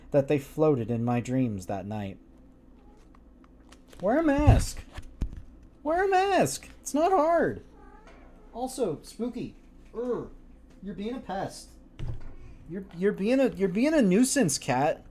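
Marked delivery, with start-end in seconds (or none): 4.0-7.6 much higher, exasperated; high exasperated scold about masks; mock scolding. 8.5-15.0 scolding the cat. Real, not acted.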